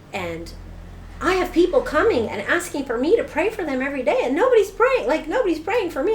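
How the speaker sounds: high, loud upset rant; retold tearful outburst at church; angry outburst. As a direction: vent the frustration with rising heat. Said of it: "I was crying, and I was mad".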